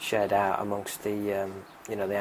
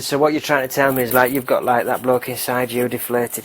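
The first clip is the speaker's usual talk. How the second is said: loud, higher-pitched questioning; acted policeman, raised voice; incredulous police questioning; 3 semitones higher, 11 dB louder than usual. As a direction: spell it out loudly to the suspect. Policeman questions robber in joke.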